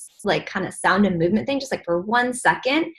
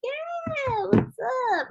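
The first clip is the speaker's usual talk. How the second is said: wary reply; 5 dB quieter, slower than usual. Retold or imitated. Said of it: "They're gonna be like".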